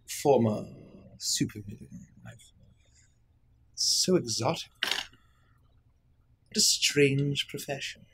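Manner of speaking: slow, drawn-out, unimpressed court lady; languid fey lady. Acted. Fey lady drawling a welcome to the former supervillain. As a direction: savour each word, faintly mocking.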